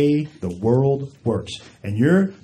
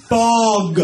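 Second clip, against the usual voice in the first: curt gate attendant; 8 semitones higher than usual. Retold or imitated. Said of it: "She goes".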